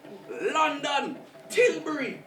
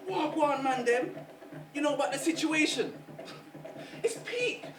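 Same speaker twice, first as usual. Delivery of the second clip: London youth slang; 5 semitones higher than usual. Retold or imitated. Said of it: "They're saying things like".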